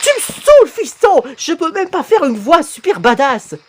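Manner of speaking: high-pitched fed-up father; exasperated outburst. Acted. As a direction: burst out, voice jumping high. Father fed up with mocking son. (exaspération suraiguë)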